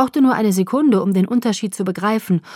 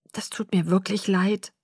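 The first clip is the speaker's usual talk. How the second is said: softer murmured apology; 6 dB quieter than usual. A narrator's reading. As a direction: mumble it down into the ground. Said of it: "murmelte er".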